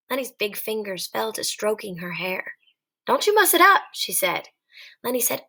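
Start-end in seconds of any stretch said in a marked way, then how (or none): 3.1-3.8 higher, sharp little warning. Acted. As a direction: warn him off, pitch up. Warning Lenny about her hair.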